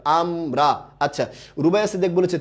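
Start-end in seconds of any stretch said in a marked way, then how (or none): 0.0-0.8 আমরা in two separate beats, আম, রা; syllable by syllable. Shown as a demonstration. Teacher repeating the quiz word, আমরা in two beats. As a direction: split আমরা after আম. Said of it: "কয়বার, কয়বার".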